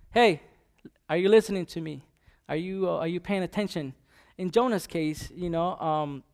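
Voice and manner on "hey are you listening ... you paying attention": loud call to get attention, then settling; God calling out. Retold or imitated. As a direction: call out like God demanding to be heard. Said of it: "that he's saying".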